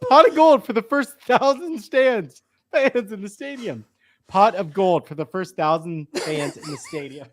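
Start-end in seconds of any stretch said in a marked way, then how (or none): 0.1-3.8 reading through real giggles, a bit higher; fighting off laughter while reading the tweet; laughing. Real, not acted. Host reading the tweet aloud to co-hosts, laughing. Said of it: "I just can't look at you".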